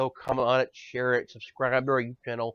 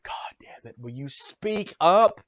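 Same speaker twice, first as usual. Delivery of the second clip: exasperated outburst; 3 semitones higher, slower than usual. Retold or imitated. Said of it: "And it's like".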